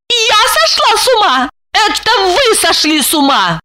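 high, indignant shout; high furious comeback; furious retort. A narrator's reading. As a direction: throw it back at him. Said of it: "яростно возразила".

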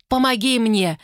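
high, breathless begging; woman begging to be killed; gasping plea. Acted. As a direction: beg for death in pain. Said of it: "задыхалась от боли".

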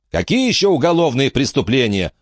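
high-pitched indignant question. A narrator's reading. Millard challenging Krakh's accusation, indignant. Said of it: "возмутился Миллард".

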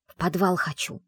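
plain reading voice

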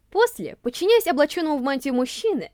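ordinary delivery

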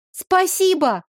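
high, loud thanks. A narrator's reading. Girl thanks the departing shopkeeper, loudly. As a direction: call it after him so he hears. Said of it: "сказала громко".

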